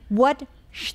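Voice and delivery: ordinary delivery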